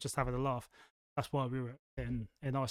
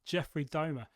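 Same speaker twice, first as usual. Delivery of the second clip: slightly Australian. Real, not acted. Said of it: "I said domer slightly Australian then".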